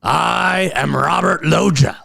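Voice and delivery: doing his favorite celebrity impression; Robert Loggia voice. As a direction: announce yourself like an old movie tough guy. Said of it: "I love to do this voice".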